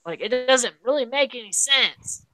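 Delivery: mock-scold her for skipping the honeymoon; incredulous scolding. Podcaster scolding Nicole for leaving her honeymoon, exasperated. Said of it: "And I'm like".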